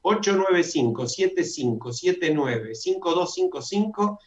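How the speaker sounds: measured number read-out, a little brisker; repeated dictation. Shown as a demonstration. Host repeating the Zoom number for listeners, measured dictation. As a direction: repeat the digit groups evenly and clearly.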